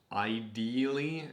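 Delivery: "ideally" drawn out slowly, set apart; verbal air quotes. Real, not acted. Vlogger putting quotations on "ideally", slow and set apart. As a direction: stretch "ideally" as if in quotation marks. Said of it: "make quotations with ideally".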